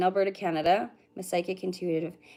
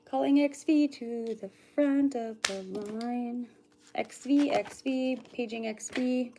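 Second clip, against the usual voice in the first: playful pretend PA call; mock store page; 3 semitones higher, slower than usual. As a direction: call the name out like a shop paging system. Calling customer to front like store PA.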